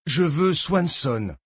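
slow, clipped, final; curt command. Acted. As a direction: flatly shut down the argument. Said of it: "dit sèchement Haynes".

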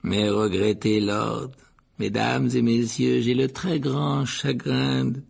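slow, projected solemn address; ceremonious ghost orator; formal speech. A narrator's reading. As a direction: orate slowly, drawing out the words. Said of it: "dit Nick d'une voix forte".

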